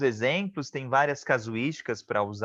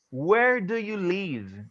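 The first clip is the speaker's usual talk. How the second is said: slow, higher English example; slow model sentence; 6 semitones higher, much slower than usual. Shown as a demonstration. Teacher to her class, modelling a question slowly. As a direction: lift it and read slowly for learners. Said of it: "Onde você mora?".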